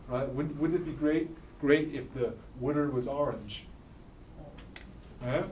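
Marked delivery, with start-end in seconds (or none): 1.6-3.6 "wooder" for water, "orange" as "ar-inge"; soft run-together "wooder" and "ar-inge" for "orange"; Philadelphia vowels. Shown as a demonstration. Teacher joking in dialect, "wooder" and "orange" as "ar-inge". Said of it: "That's why we say wooder".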